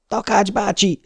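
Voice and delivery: high urgent yell of the name. A narrator's reading. Nurse yelling at a seizing patient. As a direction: shout his name to wake him. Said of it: "üvöltötte a fiú".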